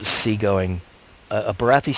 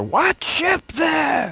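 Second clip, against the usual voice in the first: very high, swooping, far-carrying shout. Voicing a crew member hailing another ship: shouting across to a ship. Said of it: "shouts over".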